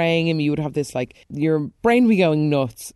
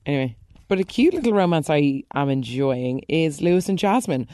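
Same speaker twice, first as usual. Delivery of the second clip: ordinary talk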